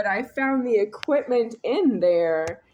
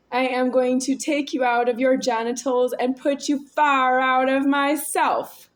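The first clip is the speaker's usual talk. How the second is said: raised voice; 3 semitones higher, 3 dB louder than usual. Real, not acted. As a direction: lean in hard on the threat. Repeated threat, louder, slower.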